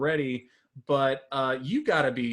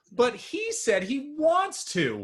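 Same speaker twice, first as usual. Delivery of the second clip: put-on high, slow little kid whine; whiny kid voice; 11 semitones higher, slower than usual. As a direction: plead like a small child. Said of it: "the kid said".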